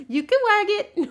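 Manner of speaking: loud, very high pet voice; high-pitched dog talk. Real, not acted. Coaxing the dog to wag his tail, high-pitched voice. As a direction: squeal it to your dog. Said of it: "speak in a really high-pitched voice".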